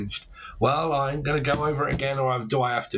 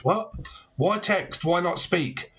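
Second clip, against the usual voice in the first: pitched-up disbelief at texting; can't believe they text instead of talk; high, baffled what and why; incredulous; 4 semitones higher, slower than usual. Real, not acted.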